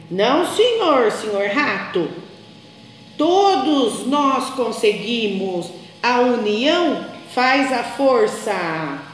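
slow, kindly moral from grandpa; grandpa's lesson. Acted. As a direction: gently teach that teamwork wins. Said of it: "disse o vovô".

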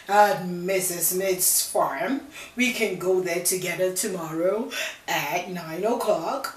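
a hint of big bad wolf. Wolf answers.

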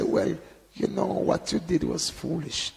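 understated, tactful telling-off; mild, polite reproach. Shown as a demonstration. Preacher showing what the Lord didn't say, mild reproach. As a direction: break it to them mildly. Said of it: "he didn't say".

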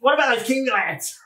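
high-pitched mock dad outburst; dad impression. Listener's dad asks after the Kiwi lads, high-pitched imitation. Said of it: "And then your dad said".

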